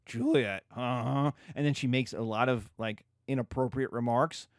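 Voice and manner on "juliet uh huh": lower, slow, leering nurse; mock bawdy nurse. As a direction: linger suggestively on the man. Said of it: "the nurse is like".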